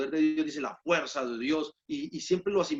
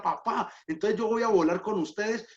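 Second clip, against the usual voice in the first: delighted little daughter, pitched higher; higher, happy imitation of a daughter; happy child; 5 semitones higher than usual. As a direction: retell a child's happy realization, voice lifted. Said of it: "ella era feliz y se reía y decía".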